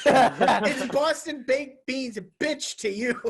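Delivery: laughing through a slow retort; slow, giggly comeback. Real, not acted.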